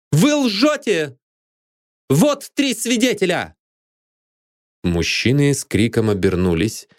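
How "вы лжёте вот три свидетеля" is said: high, slow, ringing exclamation; triumphant accusation. Acted. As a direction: call out in triumph. Heroine bursts in accusing. (торжествующее обвинение)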